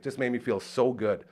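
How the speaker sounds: ordinary talk, nothing marked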